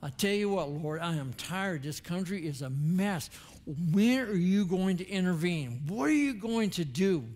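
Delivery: venting at God, building to a near-shout; a preacher retelling how he complained to God; frustrated plea to God. Retold or imitated. Tell God what he needed.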